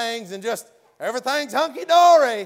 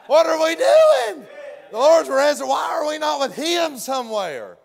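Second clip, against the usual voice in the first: exasperated disciples; 3 semitones higher, 3 dB louder than usual. Retold or imitated. Disciples voiced questioning themselves.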